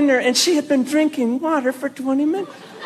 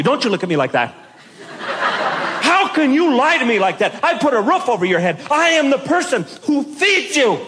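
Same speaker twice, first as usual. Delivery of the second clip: mock parent lecture. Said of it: "I went into that parent thing".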